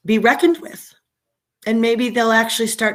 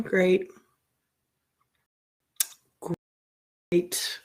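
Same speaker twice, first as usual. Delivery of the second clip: sarcastic; 3 semitones lower, 8 dB quieter than usual. Real, not acted. Sarcastic about internet.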